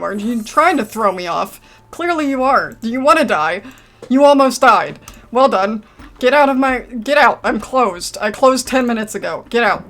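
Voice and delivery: loud furious yelling; angry shouting. Real, not acted. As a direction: yell at them to get out. Yelling patient out of shop.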